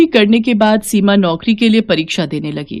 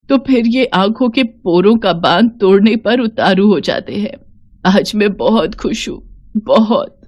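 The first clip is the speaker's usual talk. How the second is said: tearful joy. Acted. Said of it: "इतना रोई".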